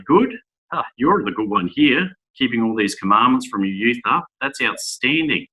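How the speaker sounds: mock gushing praise. Preacher imagines Christ flattering the young man, mock gushing.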